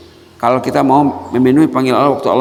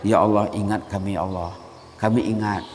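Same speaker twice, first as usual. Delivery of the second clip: softer, earnest plea; humble prayer; 4 dB quieter than usual. Shown as a demonstration. Preacher modelling a quiet prayer of response. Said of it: "salah satu step berinteraksi".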